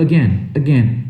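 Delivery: AGAIN as "uh-GEN"; weak first vowel in AGAIN; correct pronunciation. Shown as a demonstration. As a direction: stress the GAIN of AGAIN after a short "uh". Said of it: "não, fala again".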